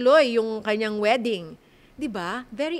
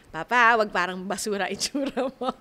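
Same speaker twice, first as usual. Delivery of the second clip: teasing paraphrase; 3 semitones lower than usual. Pretend. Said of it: "nice way of saying it".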